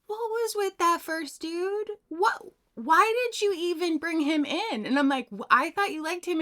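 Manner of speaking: a hint of an exasperated grandfather; mock disbelief from the grandfather. Grandfather voiced in story.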